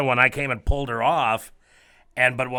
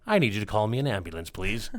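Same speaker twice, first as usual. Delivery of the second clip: calm quote; 3 semitones lower, 4 dB quieter than usual. Retold or imitated. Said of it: "just very calmly".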